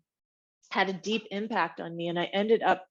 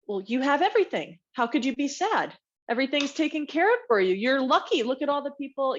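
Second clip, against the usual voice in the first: a higher, lightly scolding parent voice; imitating a parent; 5 semitones higher than usual. Parent telling a sad child she has everything, lightly voiced. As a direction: remind her of her luck, voice raised. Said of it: "I remember being told".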